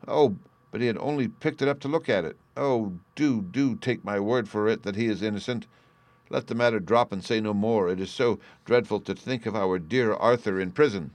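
earnest, mildly urgent plea; a touch of anxious appeal; pleading. Acted. Niece pleading with her uncle for her cousin, earnestly pleading.

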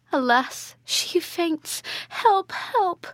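acted distress, building to a high loud call; alarmed cry. A narrator's reading. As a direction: pitch climbing high into a call for help. Mother calls for help as daughter faints.

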